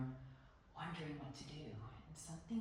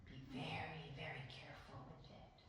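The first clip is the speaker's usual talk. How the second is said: soft, trailing into a whisper; acted-out hushed warning, as over a treasure; reverent hush; 7 dB quieter than usual. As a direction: breathe it out with awed care. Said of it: "handing it up to me with reverence".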